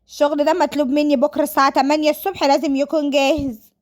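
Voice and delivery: mildly irritated, acted excuse; defensive daughter. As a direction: argue back at dad about urgent work. Voices Sara snapping at father.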